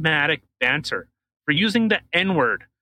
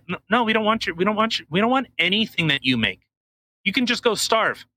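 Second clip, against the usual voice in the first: raised-pitch mock rebuff; mock dismissive refusal; 5 semitones higher than usual. Banking powers turning Russia away, mock dismissive. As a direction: cut the pleader off, acting it out.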